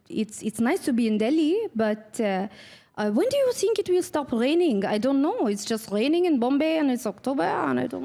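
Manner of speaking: small talk about the rain in a put-on French accent. Shown as a demonstration. Actress asked for accents does French small talk, French accent. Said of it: "I try to do a French accent".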